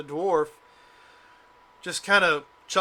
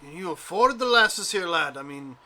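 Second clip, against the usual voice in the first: dwarf voice; 4 semitones higher, 6 dB louder than usual. Acted. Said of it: "He's like".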